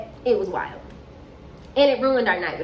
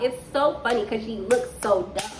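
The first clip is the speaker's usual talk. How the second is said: ordinary talk, nothing marked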